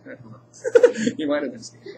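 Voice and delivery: giggling through the words; laughing. Real, not acted. Teacher jokes to students, laughing. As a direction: laugh it off at the McSteamy joke. Joking about Doctor McSteamy.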